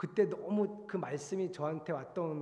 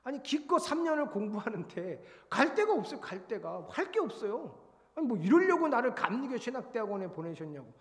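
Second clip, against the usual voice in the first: retold disappointed complaint; 5 semitones higher than usual. Preacher retells complaining to God with no place to go, mock-indignant. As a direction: protest to God in a higher, animated voice. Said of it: "또 실망했죠, 하나님한테".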